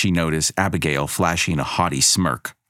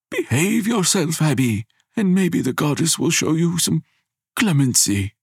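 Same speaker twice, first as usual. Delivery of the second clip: put-on higher, stern old grandfather; grandfather's voice; 11 semitones higher than usual. A narrator's reading. Grandfather warns granddaughter for the goddess to hear, stern. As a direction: warn the child so the goddess hears.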